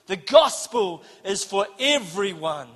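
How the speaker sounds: slow, weighty stress on "gospel" and "everyone"; emphatic declaration. Real, not acted. Declaring "The gospel is for everyone", emphatic stress. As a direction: land hard on "gospel" and "everyone", slowly. Third, climactic line of a list.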